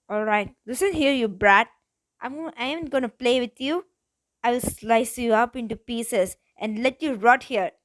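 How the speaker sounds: a loud, menacing thug's threat. Acted. Knife-wielding thug warns the girl, loud menacing threat.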